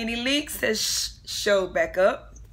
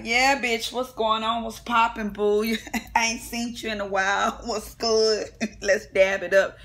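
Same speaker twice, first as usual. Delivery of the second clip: mock friendly greeting; 4 dB louder than usual. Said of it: "Miss Nene is like".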